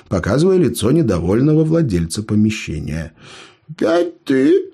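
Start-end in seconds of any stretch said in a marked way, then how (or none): 3.7-4.7 very high, slow grumpy grumble; grumbling. A narrator's reading. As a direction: grumble at the unwanted guest. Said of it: "проворчал мастер".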